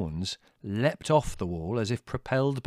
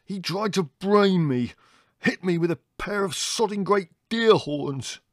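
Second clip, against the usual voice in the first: furious complaint; 10 semitones higher, 4 dB louder than usual. Acted.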